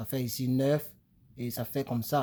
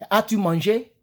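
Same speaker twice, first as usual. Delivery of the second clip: example question; 6 semitones higher, 6 dB louder than usual. Shown as a demonstration. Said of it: "Si tu veux demander à quelqu'un".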